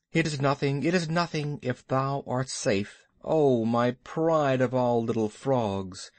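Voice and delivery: a touch of whimpering, understated; mild whimper. Acted. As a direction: fuss tenderly, lightly whimpering. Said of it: "whimpered Baloo".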